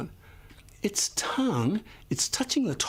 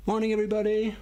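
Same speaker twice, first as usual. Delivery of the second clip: cheery teacher greeting; 7 semitones higher, faster than usual. Shown as a demonstration.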